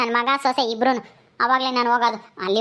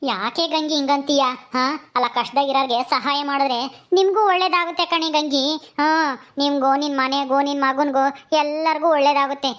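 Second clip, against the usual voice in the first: put-on pleading old woman; 2 semitones higher than usual.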